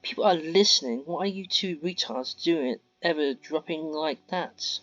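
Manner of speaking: angry rebuke. Acted. Mia hissing at eavesdroppers.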